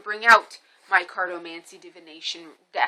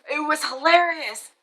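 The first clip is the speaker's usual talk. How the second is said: amused; 7 semitones higher than usual. Real, not acted. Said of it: "I was laughing".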